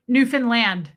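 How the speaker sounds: Newfoundland as NEW-fin-land; Canadian Newfoundland pronunciation. Shown as a demonstration. Host repeating the Canadian caller, NEW-fin-land for Newfoundland. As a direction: push NEW, shrink the middle of Newfoundland to fin. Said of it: "that was a Canadian".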